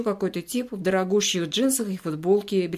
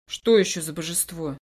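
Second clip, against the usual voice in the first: weak, exhausted voice. A narrator's reading. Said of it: "спрашиваю из последних сил".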